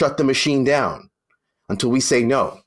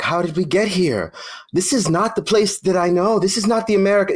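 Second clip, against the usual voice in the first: higher-pitched mimicry of disbelieving people; mock bewildered people; 4 semitones higher than usual. Mimicking people shocked at their country, higher mock bewilderment. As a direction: imitate naive disbelief, pitched up. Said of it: "some people are like".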